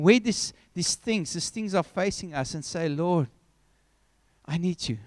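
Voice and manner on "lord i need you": low, softer sincere plea; heartfelt prayer. Acted. Preacher modelling a believer's prayer to God, heartfelt. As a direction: speak quietly and humbly to God.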